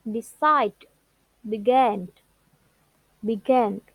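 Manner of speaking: de-CIDE in Decide, be-GAN in Began; stress on last syllable. Shown as a demonstration. Teacher listing verb examples, last syllables stressed. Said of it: "stress on last syllable".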